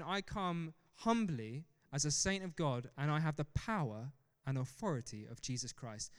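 humble but assured, without arrogance; humble declaration. Acted. Saint coming to pray for the sick at a hospital, humble. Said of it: "Not with arrogance, just saying".

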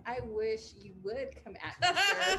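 rising loud "sir" with a laugh; taunting challenge. Retold or imitated. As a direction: dare him to try it. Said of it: "I was like".

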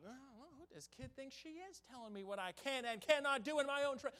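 hammed-up offended father; indignant outburst. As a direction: bristle at being told off by a kid. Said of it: "I was about".

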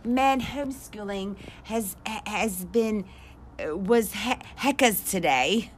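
a hint of a British accent; mock British. Trying the slang in a put-on British accent. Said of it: "I'm talking like freaking British or something".

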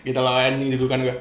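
hiccuping mid-sentence; with hiccups. Real, not acted. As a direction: talk through hiccups. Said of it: "Goblok, cekukan lagi".

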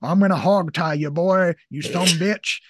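mimicking an oddly thick, put-on accent; mock weird accent, drawn from an action film; The Rock's weird accent. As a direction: exaggerate a weird movie tough-guy accent. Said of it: "weird accent".

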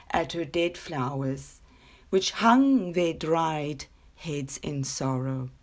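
unhurried storybook reading voice; story narration. A narrator's reading. Reading her short story to podcast listeners, gentle storytelling. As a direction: read it like a bedtime tale. Reads a children's story aloud.

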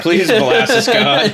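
orphan prayer. Pretend. Orphan praying to molasses.

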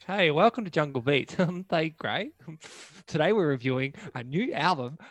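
nose taped up, snouty voice; pig nose voice. Pretend. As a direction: talk like your nose is pushed up like a pig's. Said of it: "so I can just always be like this".

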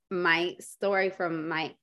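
speaking while sick with a runny nose. Real, not acted. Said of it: "Sorry, my nose is running".

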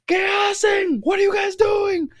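high, loud scolding yell; hammed-up furious grandfather; imitated angry shout. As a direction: holler at misbehaving kids like an outraged grandfather. Grandfather yelling at the boys.

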